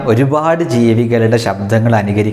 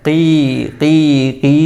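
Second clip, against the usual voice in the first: teacher's demonstration of chick cheeping; imitated chick cry; 3 semitones higher than usual. Shown as a demonstration. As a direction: mimic a crying baby bird. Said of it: "കരച്ചിലിൻ്റെ sound".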